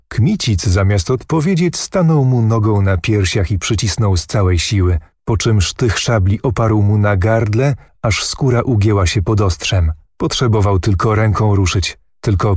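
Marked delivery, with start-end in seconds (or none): none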